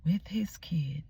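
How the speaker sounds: mock outrage, climbing high on the later words; indignant retelling of an angry inner rant; retold indignation. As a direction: act out being furious at him, rising in pitch. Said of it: "I got furious because I'm like".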